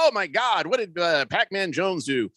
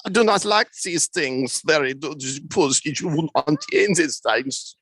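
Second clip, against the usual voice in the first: put-on German accent; 5 semitones lower, slower than usual. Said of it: "do Tom Brady with a German accent".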